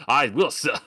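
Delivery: a hint of a Southern gentleman; mock Southern lawyer. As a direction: play a Southern courtroom lawyer. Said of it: "trying to sound like".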